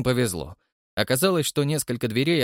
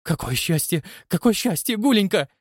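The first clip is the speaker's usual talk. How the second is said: overjoyed; 7 semitones higher than usual. Acted. Museum director overjoyed to be on the safe side. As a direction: gush with relief and joy. Overjoyed at his lucky escape.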